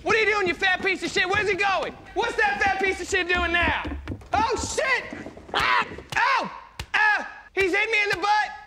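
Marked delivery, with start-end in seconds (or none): 4.3-8.6 pained comic yelling. Acted. President yelling as he is hit.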